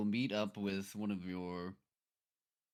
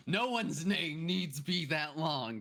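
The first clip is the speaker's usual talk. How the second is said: exasperated; 6 semitones higher, slower than usual. Acted. Exasperated comic complaint.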